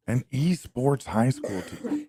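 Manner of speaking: slow, stunned disbelief; incredulous. Real, not acted. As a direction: read each word slowly like you can't believe it. Rereads the headline in disbelief.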